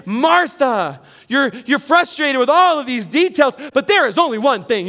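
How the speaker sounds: mild scolding, like wagging a finger; a light rebuke to Martha; Jesus gently scolding Martha; rebuking tone. Shown as a demonstration. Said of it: "you could read it with that tone".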